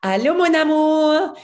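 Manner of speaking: a boy playing the helpful husband; imitating a little boy. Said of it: "the little boy comes out and he goes".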